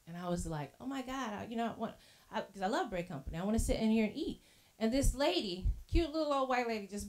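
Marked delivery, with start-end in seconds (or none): 0.8-4.4 much softer, muttered longing; quiet mock lament. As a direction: sigh it to yourself. Retold disappointment, no table.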